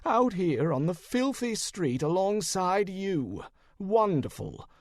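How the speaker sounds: voice hiked up. Acted. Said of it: "his voice hiked up an octave".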